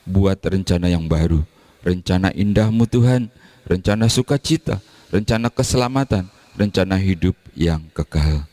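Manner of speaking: steady, earnest intercession; prayer. Acted. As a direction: lead the congregation in prayer. Leads closing prayer.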